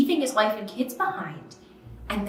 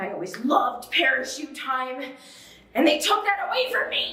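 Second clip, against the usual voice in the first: trembling, quavering, wavering voice; 4 semitones higher than usual. Recalling being sent to the principal's office, quavering voice. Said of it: "(voice quavers)".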